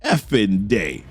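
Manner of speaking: slow, drawn-out tough-guy dare; ready for it. Retold or imitated. Recapper quotes Wolverine facing the charge, slow mock challenge. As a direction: space out each word like a challenge. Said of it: "this man's ready for it".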